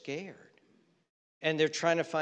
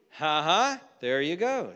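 loud, taunting fake laugh; mock gloating; 5 dB louder than usual. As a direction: gloat mockingly over an enemy's downfall. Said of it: "We want things to go bad".

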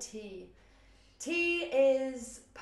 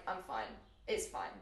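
tight fine; 3 semitones lower, 5 dB quieter, slower than usual. Retold or imitated. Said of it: "someone's like".

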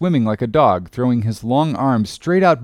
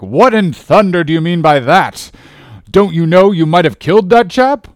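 loud, raised, indignant demand; captain's angry cry; 6 semitones higher, 7 dB louder than usual. A narrator's reading. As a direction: scold him loudly as an outraged captain. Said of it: "cried the captain".

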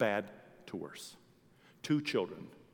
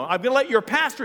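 high-pitched shouted announcement; loud, angry lecturing; 12 dB louder than usual. Retold or imitated. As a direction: order the room about at full voice. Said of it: "That's how he was talking to him".

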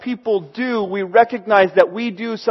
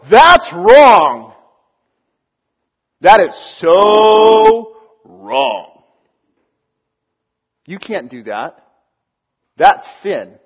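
loud, slow mock condemnation; hammed-up self-righteous tut-tutting; cartoony judge; 2 semitones lower, 7 dB louder, much slower than usual. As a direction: drag out the outrage like a cartoon scold. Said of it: "doesn't quite sound that cartoony or funny".

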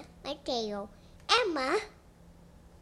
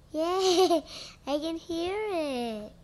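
excited; 6 semitones higher, 6 dB louder, slower than usual. Real, not acted. Child excited hearing headphones.

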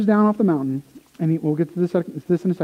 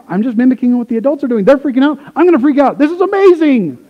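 put-on excited kid; 4 semitones higher, 3 dB louder, faster than usual. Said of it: "they're like".

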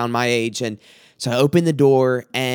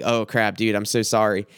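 lower, understated embarrassed aside; embarrassed apology; 4 semitones lower than usual. Retold or imitated. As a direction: imitate a sheepish son apologising.

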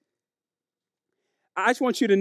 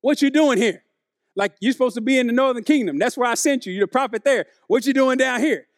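God questioning; 3 semitones higher than usual. Retold or imitated. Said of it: "a question of geographical location".

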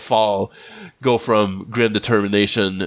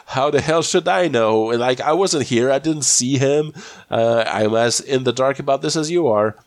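mildly exasperated, pitched-up protest; indignant retort; 4 semitones higher than usual. Retold or imitated. Daniel snaps back at Kowalski's question, mildly indignant. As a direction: throw it back at them, mock-indignant.

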